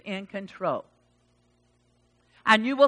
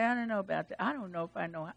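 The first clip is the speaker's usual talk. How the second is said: doubtful; 4 semitones lower, 10 dB quieter, much faster than usual. Acted. Voices a doubting listener.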